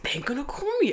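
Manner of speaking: whispered aside. Retold or imitated. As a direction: breathe it as a whispered agreement. Girlfriend quietly agrees.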